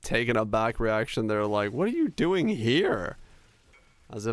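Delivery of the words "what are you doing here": higher, slow, drawn-out disbelief; mock astonishment. Streamer imitating locals asking why he came, in drawn-out disbelief. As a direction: stretch it out like a baffled local. Retelling strangers' reaction.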